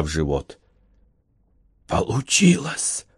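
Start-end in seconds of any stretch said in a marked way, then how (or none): 1.9-3.1 soft high croak; dying rasp of triumph; hoarse wheeze. A narrator's reading. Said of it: "прохрипел Корнелиус". (хриплый шёпот умирающего)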